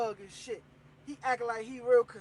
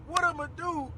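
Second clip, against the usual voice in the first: higher-pitched mock wail, drawn out; retold tearful outburst; 4 semitones higher than usual. Grandson pouring out his broken heart to G-Ma, mock tearful wail. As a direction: act out a mildly wailing breakdown. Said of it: "I bust out in yell and tears".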